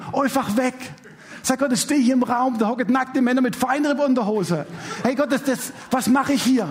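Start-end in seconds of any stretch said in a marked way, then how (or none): 5.0-6.7 embarrassed laugh through the words; pleading to God with a laugh. Retold or imitated. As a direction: laugh at your own awkward spot. Embarrassed among half-naked men.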